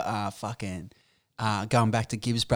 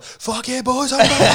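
mock triumphant return; 11 semitones higher, 4 dB louder, slower than usual. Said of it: "they just run down like".

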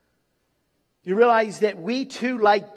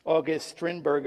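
ordinary delivery

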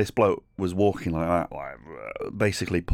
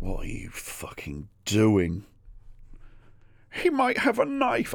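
panicked aside; 5 semitones higher, slower than usual. Retold or imitated. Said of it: "And I'm like".

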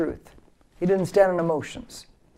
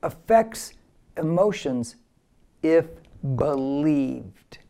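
call-and-repeat slogan; much slower than usual. Shown as a demonstration. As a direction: lead the crowd through it piece by piece, settling on BELIEVED. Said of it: "Say with me again".

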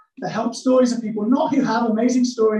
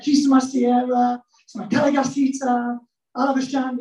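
mock tongues; 3 semitones higher than usual. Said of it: "everyone's favourite made-up tongues".

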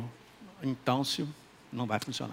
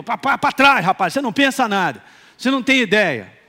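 mock rebuke; 3 semitones higher, 5 dB louder than usual. Inner man rebuking the flesh.

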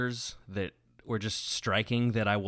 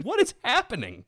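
high, laughing disbelief; 14 semitones higher, 4 dB louder than usual. Retold or imitated. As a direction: squeal it through laughter. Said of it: "And you're like".

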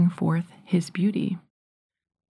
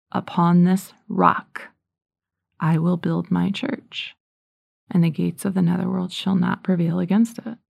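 solemn recalled words. Retold or imitated. Retelling divine words heard in prayer.

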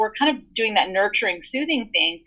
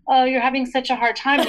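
gushing, pitched-up "Oh, you're having such a hard time"; overly permissive coddling; 4 semitones higher than usual. Retold or imitated. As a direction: coo it like a pushover parent letting anything go. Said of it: "You're not like".

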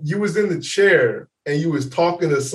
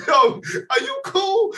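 much higher, slow, called out; mock shout; 13 semitones higher, slower than usual. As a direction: call out half-laughing, checking on him. Asking drunk friend again.

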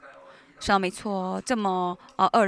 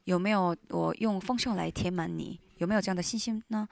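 gentle voice of God; 4 dB quieter than usual. Retold or imitated. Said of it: "神对我说".

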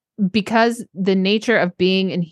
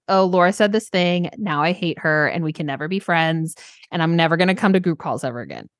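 mock overreaction. Coach mimics a client swearing off group calls, mock aggrieved. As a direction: play the triggered client writing off a friend. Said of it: "versus, like".

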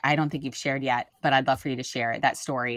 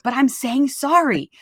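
whiny daughter; 10 semitones higher, 5 dB louder, slower than usual. Retold or imitated. Daughter voiced in retold argument.

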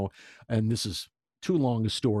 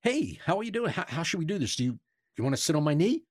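Keitel quote; 5 semitones higher, faster than usual. Retold or imitated. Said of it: "Keitel says".

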